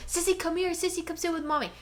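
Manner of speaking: lightly voiced high dog-calling; coaxing the dog. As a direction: call the dog over sweetly.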